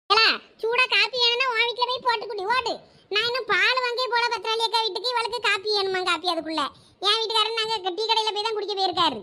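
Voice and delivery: mildly angry. Acted. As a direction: scold with a touch of annoyance. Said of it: "கோவப்படாதீங்க". (லேசான கோபத்துடன் திட்டுவது)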